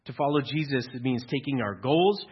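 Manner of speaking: ordinary talk, nothing marked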